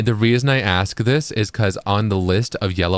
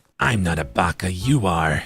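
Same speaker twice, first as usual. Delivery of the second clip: low, slow English anime dub delivery; 4 semitones lower than usual. Joking with chat in an anime dub voice. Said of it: "that's my anime dub voice".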